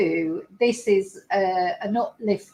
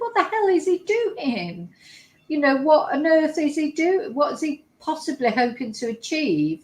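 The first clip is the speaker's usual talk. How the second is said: retold disbelief; 4 semitones higher than usual. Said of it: "I'm thinking".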